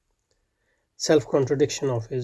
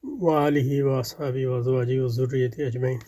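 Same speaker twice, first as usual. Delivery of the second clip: recited religious blessing, evenly intoned; Arabic opening invocation; 3 dB quieter, much faster than usual. Acted. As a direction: run through the Arabic blessing as a familiar formula.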